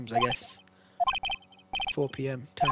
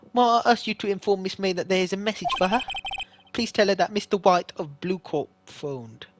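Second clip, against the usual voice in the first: Michael Caine; 4 semitones higher than usual. Acted. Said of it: "let's do a Michael Caine voice".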